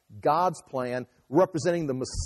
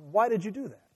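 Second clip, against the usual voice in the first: higher-pitched indignant question; acted challenge, pitched up; challenging; 5 semitones higher than usual. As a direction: challenge them for an answer. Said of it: "He challenged them".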